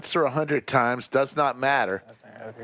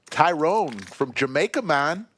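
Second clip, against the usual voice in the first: light put-on Jamaican accent; a weak stab at a Jamaican lilt; 3 semitones higher than usual. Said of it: "work on your Jamaican accent".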